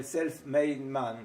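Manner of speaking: self-made man, said slowly with a French accent; "self-made man" à la française, lent et appuyé; English with a French accent. Shown as a demonstration. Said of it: "Je voulais dire avec mon accent". (accent français en anglais, articulé lentement)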